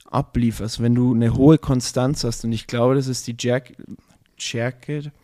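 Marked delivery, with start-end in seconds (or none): 2.9-5.1 dry mouth. Real, not acted. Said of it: "mein Mund ist trocken".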